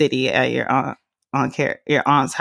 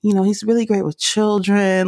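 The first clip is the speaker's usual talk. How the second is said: higher gushing aunt voice; imitating gushing relatives; 5 semitones higher than usual. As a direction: praise him sweetly like a relative selling him. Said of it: "they were like".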